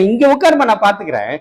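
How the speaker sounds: soft, fading reassurance; the Lord tells the believer to sit and rest, softening to quiet; tender Lord's voice. Retold or imitated. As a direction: comfort a child gently. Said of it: "ஆண்டவர் என்ன சொல்றாருன்னா".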